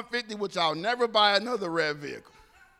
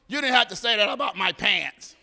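laughing; 2 semitones lower, 3 dB louder than usual. Retold or imitated. Officer laughing at their reunion.

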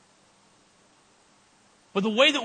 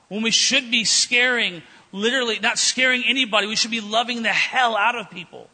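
loving the hell out of people, punched loud; preaching emphasis; 3 semitones higher, 4 dB louder than usual. Real, not acted. Preacher to congregation, pressing the point with loud emphasis. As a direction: drive home "hell" with a strong fall.

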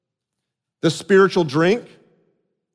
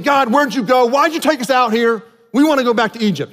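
higher mock grumbling; 5 semitones higher than usual. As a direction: whine it like an ungrateful crowd. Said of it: "Grumbling, complaining".

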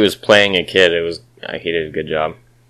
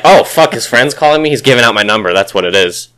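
higher, louder mock panic; mock paranoid; 4 semitones higher, 5 dB louder than usual. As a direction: overreact like a jumpy kid. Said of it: "He's like".

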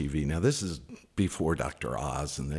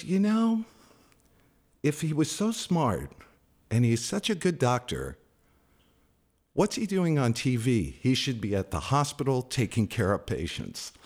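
mother's voice pitched much higher, a mock skeptical verdict; imitating mom; 7 semitones higher than usual. Son imitating his mother mocking a TV doctor, in a higher voice.

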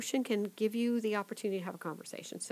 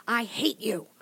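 a hushed imitation of an angry child; light retold tantrum, whispered; whispered mock outburst; 2 semitones higher, 6 dB louder than usual. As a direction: breathe the child's line rather than shout it.

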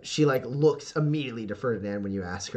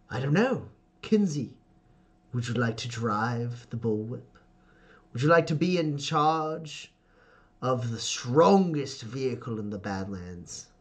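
smirking patriarch. Acted. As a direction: dangle the prize with sly pauses. GM voices smirking Ferdinand.

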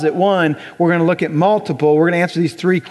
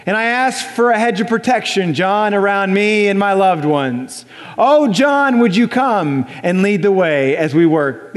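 lightly hammed-up pleading prayer; drawn-out words, as if praying to the boss; mock prayer voice; slower than usual. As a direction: intone it like a solemn petition. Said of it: "like you speak when you pray".

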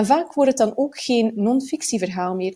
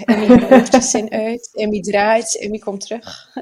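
reporter voice; 7 dB louder than usual. Retold or imitated. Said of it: "Ik ben bijna een verslaggever geworden".

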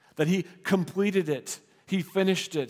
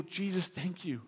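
quiet softer address to Jesus; soft prayer; 8 dB quieter than usual. Pretend. Believer thanking Jesus in prayer, soft. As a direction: breathe the prayer gently. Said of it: "we go".

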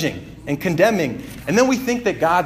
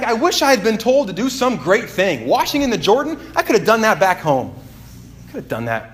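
annoyed Naaman; 5 semitones higher than usual. Retold or imitated. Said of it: "he's angry".

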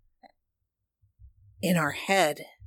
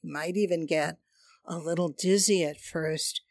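airy breathy mystical healer. Acted. Guides hand on chakra, breathing.

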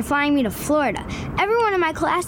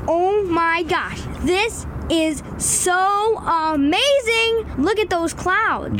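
amazed; 4 semitones higher, slower than usual. Acted. Son amazed in cockpit.

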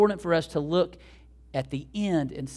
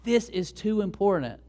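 insistent objector; 4 semitones higher, 3 dB louder than usual. Retold or imitated. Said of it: "might be listening to this story and go".

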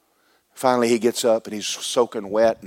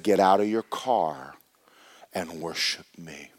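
slow tender command; 3 semitones lower, slower than usual. Acted. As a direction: gently call him out to worship. Lord's command, slow and hushed.

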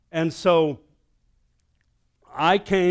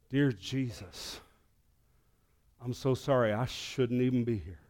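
fearful hushed prayer; 3 semitones lower, 8 dB quieter than usual. Retold or imitated. Pastor alone in the roaring church, softly afraid. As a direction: whisper a frightened confession.

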